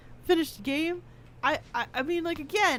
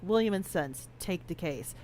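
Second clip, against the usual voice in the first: low, soft, ominous code phrase; quiet menacing code; 6 semitones lower, 7 dB quieter than usual. Retold or imitated. Man on a work call drops a quiet menacing code. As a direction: murmur it like a mob boss's order. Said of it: "And it's like".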